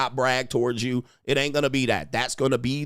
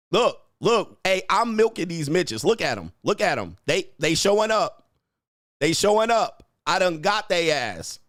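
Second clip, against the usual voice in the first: gleeful gloating; 3 semitones higher than usual. Real, not acted. Streamer gloats to viewers that the haters are still watching, gleeful. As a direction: crow over the haters who keep watching.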